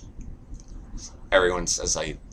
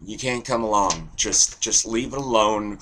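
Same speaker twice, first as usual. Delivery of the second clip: dismissive big brother; 4 semitones higher, 4 dB louder than usual. Acted. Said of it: "And we're like".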